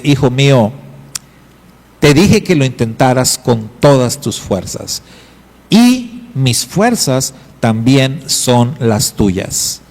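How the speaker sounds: voz de padre tranquila y pausada; consuélalo con calma, sin prisa; padre tierno. Acted.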